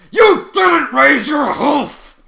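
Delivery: furious screaming outburst. Acted. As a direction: scream it at her in a rage. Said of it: "Trevor screamed at her".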